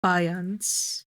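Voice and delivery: faience said the French way, calmly; final French faience; settled French-style pronunciation. Shown as a demonstration. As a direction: faience as the chosen French reading. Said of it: "Is that how you said it?".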